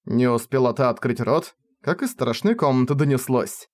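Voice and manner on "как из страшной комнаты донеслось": ordinary delivery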